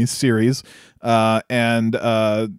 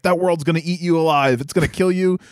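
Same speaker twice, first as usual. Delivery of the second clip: mock in-your-face rant; 5 semitones higher, faster than usual. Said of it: "gets all in his face".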